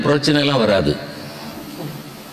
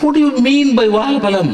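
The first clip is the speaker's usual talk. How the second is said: puzzled Englishman; 10 semitones higher, much faster than usual. Acted. Teacher playing an Englishman puzzled by a Tamil word, high and laughing. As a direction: ham up a baffled Englishman.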